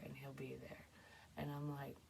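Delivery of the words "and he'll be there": hushed whisper. Retold or imitated. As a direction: breathe it like a secret. Whispered reassurance in dream retelling.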